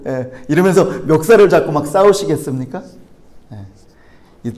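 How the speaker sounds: ordinary delivery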